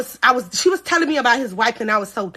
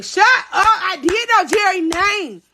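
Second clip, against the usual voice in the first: indignant denial; 5 semitones higher than usual. Real, not acted. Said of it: "do not listen to my husband".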